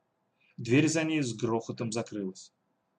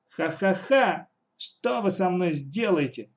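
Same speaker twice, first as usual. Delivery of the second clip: slow, fake loud laugh, much higher; forced loud laugh; 6 semitones higher, slower than usual. Katya defying her captors with a slow, fake loud laugh. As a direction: ham up a defiant fake laugh. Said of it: "Делано громко засмеялась Катя".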